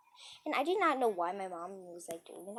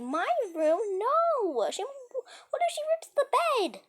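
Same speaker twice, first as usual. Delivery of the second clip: high, loud panicked cry; panicked mom; 8 dB louder, slower than usual. Retold or imitated. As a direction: shriek it out in alarm, pitch soaring. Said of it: "and she said".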